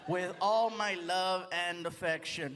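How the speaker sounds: writing aloud. Acted. Comedian signs autograph for dancer, slow write-along voice. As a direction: draw it out as if penning it.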